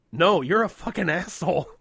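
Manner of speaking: mock rude snap. Acted rude reply, comic.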